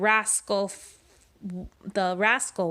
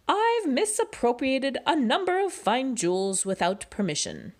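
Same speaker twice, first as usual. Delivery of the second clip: higher, polite and prim; proper rascal; 5 semitones higher than usual. Acted. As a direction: speak like a well-mannered fellow. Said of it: "said the rascal".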